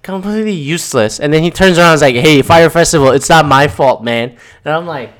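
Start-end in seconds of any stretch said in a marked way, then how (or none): 2.2-4.4 imitating a rapper. Imitating a rapper deflecting blame.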